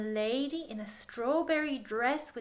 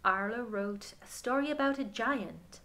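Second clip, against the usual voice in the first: gentle picture-book reading voice; story narration; 7 dB louder than usual. Acted. Reading the picture book aloud to a child, gentle storytelling. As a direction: read it to children at bedtime.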